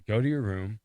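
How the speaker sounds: mock angry order. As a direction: send the kids off like a fed-up dad. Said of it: "with an aggressive tone".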